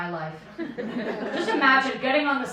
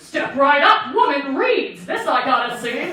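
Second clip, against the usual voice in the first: loud carnival barker call; 6 dB louder than usual. Retold or imitated. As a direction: hawk it like a 1930s barker. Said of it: "a nineteen thirties carnival".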